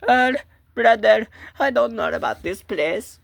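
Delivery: high, loud anxious whine; scared. Acted. Telling brother about an unsettling place, scared. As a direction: wail your unease upward.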